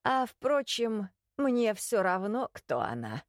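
put-on high, slow creaky old man; creaky condescending old man. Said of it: "неожиданно проскрипел старик уже более снисходительно".

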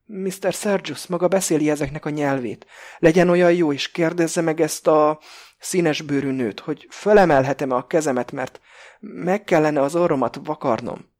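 put-on high, loud, childish plea from a frightened hostage; trembling, childlike. A narrator's reading. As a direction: plead helplessly like a scared child. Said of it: "hangja remegő és gyerekes". (remegő, gyerekesen kérlelő hangon)

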